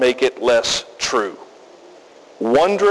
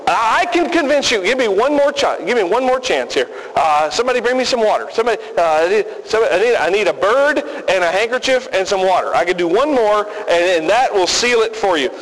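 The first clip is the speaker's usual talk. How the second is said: higher, frantic stage magician calling for props; a flustered performer scrambling for one more act; mock desperate showman; 4 semitones higher, faster than usual. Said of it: "now that's what we would do probably".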